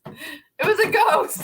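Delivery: slow spooky joke; joking. Pretend. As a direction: say it like a mock ghost claim. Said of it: "I'm kidding".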